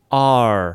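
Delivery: "R" as a long open ah curling into r; drawn-out "R" with tongue curled at the end; slow demo of the sound "R"; American ar. Shown as a demonstration. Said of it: "ちょっとRっぽい音が入る".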